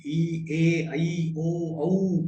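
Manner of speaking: vowels mouthed wide and clear; vowel drill. Shown as a demonstration. Teacher drilling vowels for students, crisp and exaggerated. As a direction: show each vowel with open lips. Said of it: "उच्चारण स्पष्ट हो".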